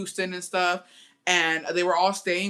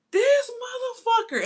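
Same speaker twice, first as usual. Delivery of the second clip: mock angry dad; slower than usual. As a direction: spit it out like a furious dad. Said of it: "And then he was like".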